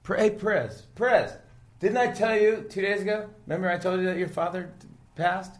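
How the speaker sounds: high, loud, hurried call across the garage; loud excited boss. Retold or imitated. Boss calls out to a driver about his father's death, loud and high. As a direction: bellow the name high to get his attention. Retelling the boss delivering news.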